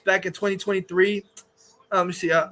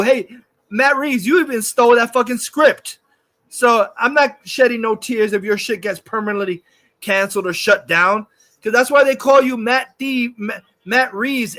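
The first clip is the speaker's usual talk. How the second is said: mocking rant. Real, not acted. Ranting directly at Matt Reeves.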